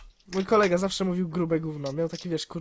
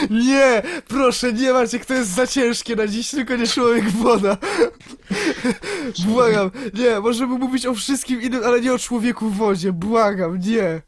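mock pleading. Mock begging not that topic.

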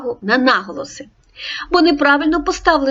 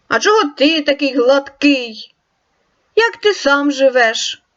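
hungry wolf, lightly voiced higher; a touch of a hungry wolf; wolf character; 3 semitones higher than usual.

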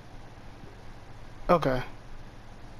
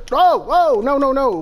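startled panic; 5 semitones higher, 4 dB louder than usual. Real, not acted. Startled by sudden darkness.

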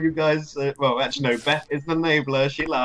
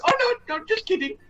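retold caller. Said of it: "retold caller backing down".

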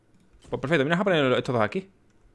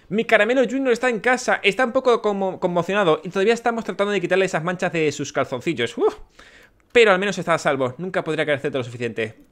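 lightly higher, relieved thankful voice; relieved villager parent; 5 semitones higher than usual. Acted. Villager parent thanking the creator, lightly voiced relief. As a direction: sigh with relief that he is home. Reads grateful villager letter.

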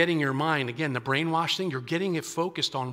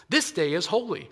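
firm declaration; 3 semitones higher than usual. Retold or imitated. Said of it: "He says".

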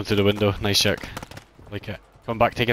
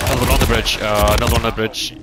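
loud callout; 5 dB louder than usual. Real, not acted. Urgent enemy callout in firefight.

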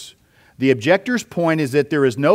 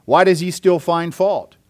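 higher-pitched challenging question, lightly acted; objector's challenge; 4 semitones higher than usual. Preacher voicing Paul's objector to the church, lightly acted challenge. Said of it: "And then here's the objector".

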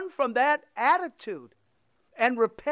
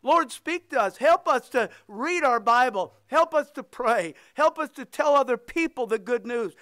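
pleading prayer, leaning on each help; fervent prayer; 3 dB louder than usual. Acted. Leading the church in prayer, earnest and loud. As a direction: pray it out with rising fervour. Preacher leads closing prayer.

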